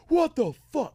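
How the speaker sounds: high-pitched incredulous outcry; acted shock, pitch leaping up; mock disbelief. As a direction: react appalled at an absurd charge. Acted shocked reaction to accusation.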